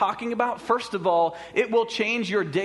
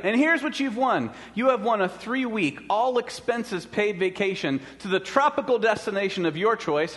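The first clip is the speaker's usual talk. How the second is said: booming prize announcer; 4 semitones higher than usual. Acted. Phone caller announcing a prize.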